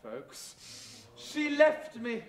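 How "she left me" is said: slow, overwrought lament on left; milk "left" with slow tragic weight; melodramatic despair. Shown as a demonstration. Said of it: "It was worse than that".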